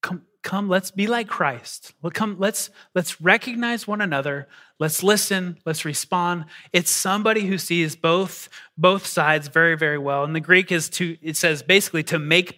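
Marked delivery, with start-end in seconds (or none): 0.0-6.5 peacemaker's invitation. Retold or imitated. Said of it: "somebody in between that just says".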